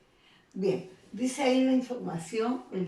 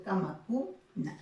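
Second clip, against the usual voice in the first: "cama, cuna" with CU held apart from na; tonic syllable shown; slower than usual. Shown as a demonstration. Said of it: "podemos reconocer una sílaba tónica".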